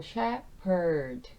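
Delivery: "shepherd" slow, p then erd, no f, silent h; pronunciation demo. Shown as a demonstration. Teacher repeating "shepherd" slowly, silent h. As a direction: draw out "shepherd" with only the p sound. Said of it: "H 묵음으로 생각하시고 P 소리만".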